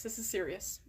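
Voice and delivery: calm yourself into gravity; mock serious. Real, not acted.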